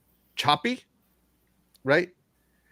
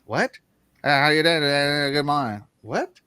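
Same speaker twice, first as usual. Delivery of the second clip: mock Texas mumble. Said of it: "people in Texas that talk like".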